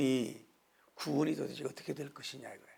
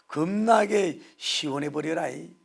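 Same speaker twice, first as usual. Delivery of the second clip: slow, loud Jeolla dialect; Jeolla accent; 3 semitones higher, 8 dB louder, slower than usual. Retold or imitated. Pastor mimicking Jeolla speech, loud slow Jeolla accent. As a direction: savor it like a Jeolla local. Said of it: "전라도".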